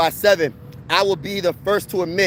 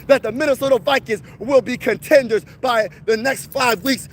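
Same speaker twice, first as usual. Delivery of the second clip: fan hype rant; 3 semitones higher than usual. Real, not acted.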